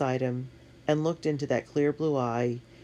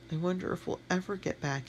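softer, near-whispered worry; 5 semitones higher, 6 dB quieter than usual. A narrator's reading. Tony wonders aloud about getting home, whispered. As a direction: hush it, afraid to hope. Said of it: "he whispered".

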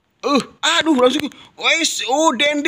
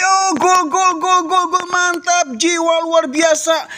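goal call; 5 semitones higher than usual. Acted.

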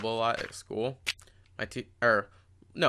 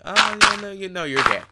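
mock girl's dismissive voice; 8 semitones higher than usual. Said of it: "she's like".

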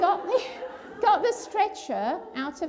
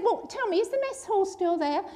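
eager, higher and louder questions; animated; 7 semitones higher, 5 dB louder than usual. Retold or imitated. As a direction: perk up, hungry for news of the old base. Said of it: "he started becoming quite animated".

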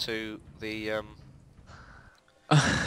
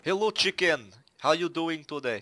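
cutesy voice for chickens; 7 semitones higher, 8 dB louder than usual. Pretend. Greeting the chickens.

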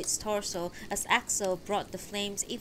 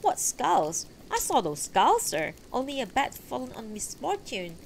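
mildly raised, higher-pitched knight's retort; carelessly loud; 5 semitones higher than usual. A narrator's reading. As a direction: deny it with careless, slightly raised voice. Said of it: "became carelessly loud".

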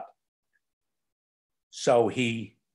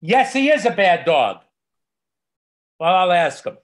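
raised voice on a pretend call; mock indignant report; 4 semitones higher, 6 dB louder than usual. Dog owner answering the doggy police, mock indignant. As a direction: loudly confirm the dog's guilt, hammed-up. Acted phone complaint about the dog.

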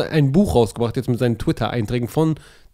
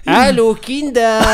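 high, slow storybook uncle greeting; goofy muffled sock puppet; 7 semitones higher, 3 dB louder, slower than usual. Acted. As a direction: greet the children like a hammy puppet. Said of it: "So ein Hörbuch".

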